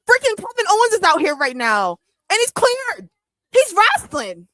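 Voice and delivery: loud, high, freaking-out fan excitement; real over-the-top thrilled outburst; worked up. Real, not acted. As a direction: exclaim it like you can't believe the news. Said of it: "I need to calm down".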